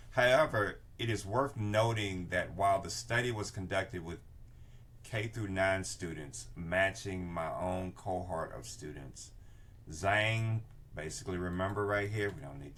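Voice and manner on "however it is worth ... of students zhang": reading aloud. Shown as a demonstration. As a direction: read the quoted sentence aloud. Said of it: "let me read the whole sentence".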